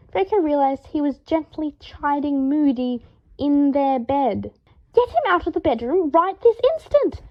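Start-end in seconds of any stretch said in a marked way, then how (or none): 4.9-7.2 loud, much higher bellowing command. A narrator's reading. Draco bellows at Harry through the bathroom door, furious. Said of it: "Draco bellowed".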